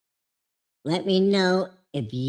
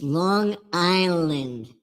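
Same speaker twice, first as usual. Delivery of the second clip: Long Island accent; slower than usual. Shown as a demonstration.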